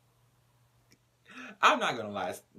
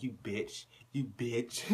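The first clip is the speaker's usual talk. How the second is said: laughing; 5 dB quieter, slower than usual. Retold or imitated. Karen laughing insult.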